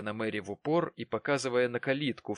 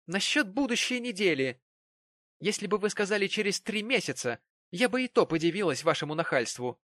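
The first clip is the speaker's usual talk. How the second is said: much higher, mock indignation; indignant Mary; 9 semitones higher, 3 dB louder than usual. A narrator's reading. Mary scoffs at Jonas's proposal. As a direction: scoff at his cheek.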